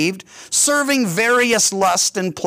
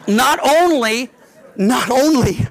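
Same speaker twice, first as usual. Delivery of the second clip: a real laugh breaks through, louder and higher; 5 semitones higher, 5 dB louder, slower than usual. Real, not acted. Preacher to congregation about shrinking, laughing. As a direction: laugh through the words as the joke lands.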